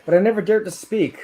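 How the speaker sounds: slow, deliberate poem reading; poetry reading. Acted. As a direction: read it like a spoken-word poem. Reads his debut poem aloud.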